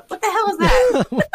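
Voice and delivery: high, loud laughing outburst; laughing exclamation. Retold or imitated. Imagined sketch artist reacting, high and laughing. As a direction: blurt it out through laughter. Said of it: "the artist going".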